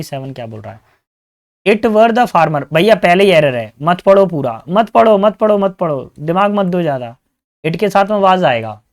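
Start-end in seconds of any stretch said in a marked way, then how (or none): 1.7-7.2 loud, raised, repeated urging; insistent urging. Real, not acted. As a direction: urge the class loudly to stop. Urging students to stop reading.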